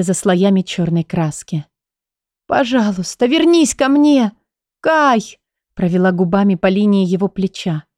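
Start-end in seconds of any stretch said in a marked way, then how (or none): 2.5-5.4 calling out higher, pleading; desperate plea. A narrator's reading. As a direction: beg him to come back. Heroine cries out to Kai.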